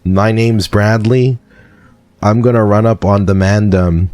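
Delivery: playful mock Jamaican accent; Jamaican patois. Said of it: "Is that good or no?".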